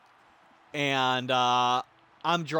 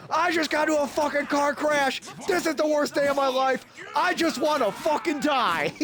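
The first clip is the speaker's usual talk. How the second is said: higher, wailing mock meltdown; retelling his own dramatic wail after the crash; despairing outburst; 8 semitones higher than usual. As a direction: overplay the self-pity. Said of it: "my very, uh, even-keeled reaction".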